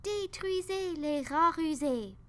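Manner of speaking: high, furious shouted order; enraged captain yelling from the boat; captain shouts. A narrator's reading. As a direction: scream the order across the water. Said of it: "a crié le capitaine".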